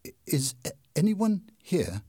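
a hint of shaky fright; trembling voice. A narrator's reading. Raoul calls into the dark room, lightly trembling. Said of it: "he asked in a trembling voice".

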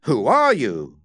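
puzzled question with a rise and fall; mystified. A narrator's reading. Joss to the masked stranger, mystified. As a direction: ask it in mystification.

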